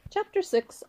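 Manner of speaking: high, loud call of 'Chapter Six'; loud announcement. Shown as a demonstration. Reader proudly announcing the chapter to listeners, loud and high. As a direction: announce it with a bang. Title read a second time.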